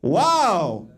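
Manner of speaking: sly, drawn-out code phrase; Dominican dude. Retold or imitated. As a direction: say the password like a secret. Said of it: "he'll be like".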